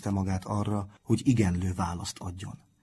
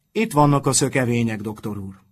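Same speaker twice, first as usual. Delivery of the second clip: honey-sweet; 2 semitones higher, 8 dB louder than usual. A narrator's reading. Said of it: "Mézédesen csengett a hangja".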